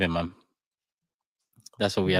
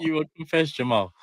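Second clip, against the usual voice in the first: mock menacing accent; 6 semitones higher than usual. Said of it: "With that accent, oh I love it".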